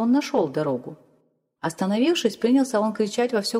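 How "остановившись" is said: usual speaking voice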